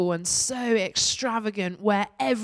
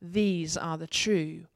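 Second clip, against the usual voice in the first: raised, ringing reading of Revelation; scripture reading. Acted. Pastor reading Revelation aloud to the congregation, raised and ringing. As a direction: proclaim the vision to the congregation.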